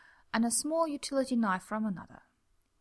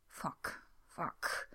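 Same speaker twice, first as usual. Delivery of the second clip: whispered curse; 5 semitones lower, 8 dB quieter than usual. Acted. Frightened curse while creeping.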